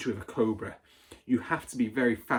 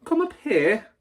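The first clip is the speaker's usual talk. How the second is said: loud, high, commanding shout; shouted order; 11 semitones higher, 8 dB louder than usual. A narrator's reading. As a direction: order him up like a sergeant. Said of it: "the Trunchbull shouted".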